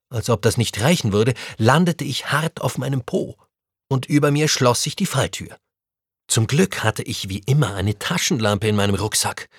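ordinary delivery, nothing marked

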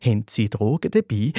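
low, controlled police questioning; suspicious policeman. Acted. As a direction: ask it low and suspicious, as an officer. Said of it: "Der Polizist wird misstrauisch, fragt nochmal".

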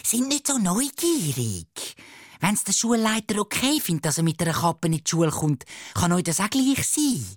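put-on high-pitched, scolding girl's voice; hissing reproach. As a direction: put the nosy boys in their place. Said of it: "Cherise zischt schon wieder".

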